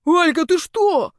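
roar. A narrator's reading. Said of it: "взревел он".

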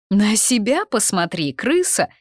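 high, loud snap back; stung, heated comeback; snappy retort. A narrator's reading. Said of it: "не осталась в долгу Дезра".

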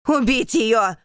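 loud, high furious screech; shrieking order. Acted. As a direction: emperor screeching for her death. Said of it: "визжит он".

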